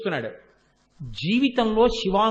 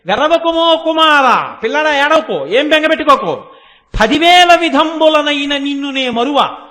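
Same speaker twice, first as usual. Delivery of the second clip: fearless motherly reassurance; 3 semitones higher, 6 dB louder than usual. Retold or imitated. Mother goddess to crying child before Shiva, loud fearless reassurance. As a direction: call out comfort boldly, holding the long vowels. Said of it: "ఆవిడ మాత్రం పక్కన శివుడు ఉన్నాడని కూడా భయపడలేదు".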